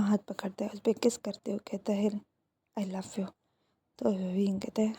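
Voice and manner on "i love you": much softer, intimate murmur; hushed loving words. A narrator's reading. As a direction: say it softly, close and tender. Says it while kissing hands.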